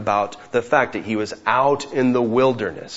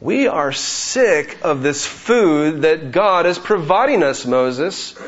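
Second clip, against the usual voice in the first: complaining Israelites; 4 semitones higher than usual. Retold or imitated. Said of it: "they said".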